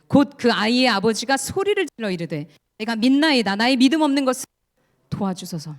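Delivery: loud solemn recitation; group scripture reading. Shown as a demonstration. Congregation reading the father's cry, loud then fading. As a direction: keep reading together, fading at the end. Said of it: "우리 같이 읽겠습니다".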